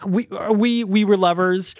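retold sheepish apology. Acts out Carl's awkward apology.

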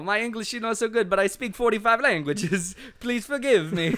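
lightly put-on foreigner accent; Borat. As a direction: apologise in a comic foreign accent. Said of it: "we're just doing Borat".

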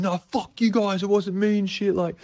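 high-pitched indignant imitation; worked-up mock outrage, high; getting worked up. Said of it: "just G'ing up and going".

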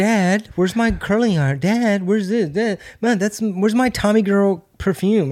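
put-on high girl voice calling for dad; yelling across the room. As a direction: call out to dad like a teen daughter. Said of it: "It's all women".

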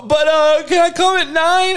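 put-on pleading kid. Child asking dad for later curfew, high mock plea. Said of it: "that motherfucker just look at you".

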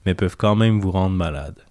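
deep, captivating radio announcer voice. Shown as a demonstration. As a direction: read it like a hypnotic late-night radio host. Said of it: "ma voix la plus, euh, grave et, euh, envoûtante".

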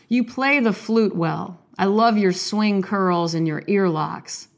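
slow, gentle poetry reading; poem reading. Acted. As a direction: read the love poem slowly and tenderly. Reads a love poem.

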